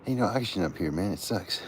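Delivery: breathless from the thin air; out of breath. Real, not acted. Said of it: "I can't even breathe".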